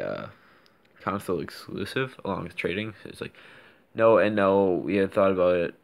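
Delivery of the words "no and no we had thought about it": loud, firm retold no; imitating an emphatic denial; emphatic refusal. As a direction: shut the question down loudly.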